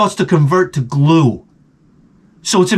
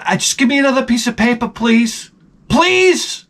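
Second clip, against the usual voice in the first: pleading; 6 semitones higher than usual. Acted. Pleading for paper towel.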